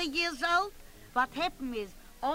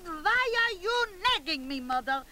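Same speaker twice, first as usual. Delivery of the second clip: son snapping at his nagging mother, raised and higher; an exasperated son raising his voice; annoyed son; 4 semitones higher than usual. Retold or imitated. Son complaining to his mother, raised and annoyed. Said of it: "He said".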